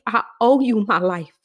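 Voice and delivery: a sudden whisper, breath only. Real, not acted. Praying to God, she drops to a whisper. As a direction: hush it to God like a confession. Whispered line inside her prayer.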